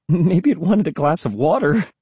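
put-on high, giddy girl's exclamation; exclaimed. A narrator's reading. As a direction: toss out the joke in a high voice. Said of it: "Emily exclaimed".

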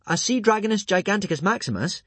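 high, grand announcement; impressing. A narrator's reading. Hiccup awing the monster, high urgent telling. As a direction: build up the beast's name. Boy builds up rival dragon.

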